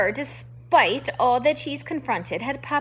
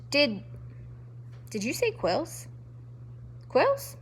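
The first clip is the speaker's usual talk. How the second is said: stammering; 3 semitones higher, 6 dB quieter than usual. A narrator's reading. Frightened mouse asking the porcupine, stammering. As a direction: stammer in dawning fear. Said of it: "she stammered".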